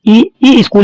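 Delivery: स्कूल with an i in front, "iskool"; added-i स्कूल. Shown as a demonstration. Teacher pointing out the error, "iskool" for स्कूल. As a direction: put a separate ई before स्कूल. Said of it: "तो ये गलत है".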